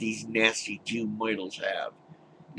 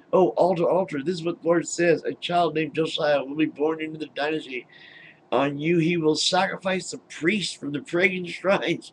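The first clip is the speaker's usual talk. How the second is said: mock booming prophet, higher and louder; Lord's command; 4 semitones higher, 3 dB louder than usual. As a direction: proclaim it like a hammy prophet. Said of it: "then the Lord command".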